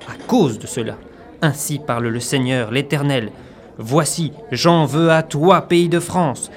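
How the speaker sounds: solemn prophetic proclamation; preaching. Acted. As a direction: thunder it like an Old Testament prophet.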